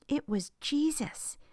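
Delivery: joyful reveal. A narrator's reading.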